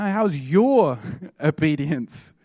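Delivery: "your" swooping and drawn out; slow right down and lean on "your"; stress on YOUR. Retold or imitated. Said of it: "he emphasized the word your".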